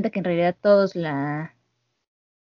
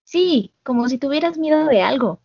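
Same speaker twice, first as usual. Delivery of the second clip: put-on higher, stammering girl's voice; a mild nervous stammer; hesitant, flustered; 5 semitones higher than usual. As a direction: stall nervously, caught off guard. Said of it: "Ella titubea y dice".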